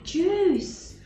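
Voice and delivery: laughing through the words in frustration. Real, not acted. Out of juice again, laughing in defeat. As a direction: give up with a laugh.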